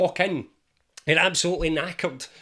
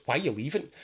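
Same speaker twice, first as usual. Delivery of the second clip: nagging inner voice; 3 semitones lower, faster than usual. Retold or imitated. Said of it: "this one goes".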